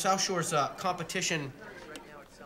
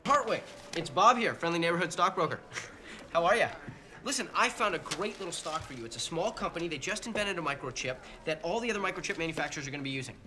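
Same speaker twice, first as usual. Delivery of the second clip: frantic sales pitch. Acted. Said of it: "I sound a little frantic?".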